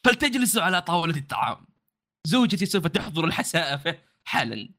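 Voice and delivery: proud guide in formal Arabic; lightly voiced proud warrior host; formal standard arabic.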